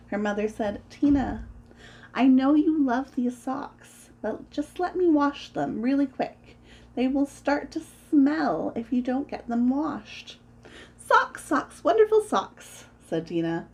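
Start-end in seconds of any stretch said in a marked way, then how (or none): 0.9-10.4 higher-pitched motherly pleading; gently insistent, raised pitch; coaxing. Acted. Mother pleads with stubborn daughter. 11.0-12.9 put-on high-pitched childish chant; high, delighted refrain; gleeful.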